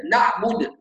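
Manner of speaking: نعبد with the ayn clamped into a hard stop; stopped ayn. Shown as a demonstration. Teacher demonstrates the ayn made into a hard stop. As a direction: choke the ayn in نعبد with no flow. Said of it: "هذا كله من الأخطاء".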